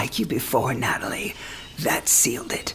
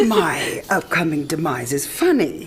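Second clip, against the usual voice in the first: teasing laugh; 4 dB louder than usual. Acted. Dying woman teases with a laugh.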